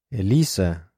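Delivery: restrained, forceful questioning call; low, forceful tone. Acted. Alex checking on Elisa in distress, low and forceful. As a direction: call the name with contained force. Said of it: "he asked in a low, forceful tone".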